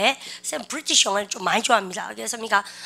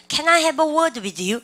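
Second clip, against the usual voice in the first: very slow, higher model question; slow model read; 4 semitones higher, much slower than usual. Shown as a demonstration. Teacher modelling the request for students. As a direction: draw the question out high and slow. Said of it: "뭐 할 말 있으면".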